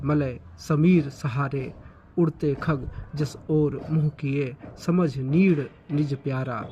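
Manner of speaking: slow, measured, rising to fuller voice on key words; slow lyrical Hindi recitation; poem recitation. Acted. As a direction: recite it like a stage poem, savouring each line.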